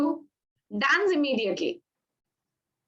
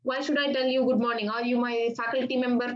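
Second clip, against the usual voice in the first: mock shout; faster than usual. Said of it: "don't shout like".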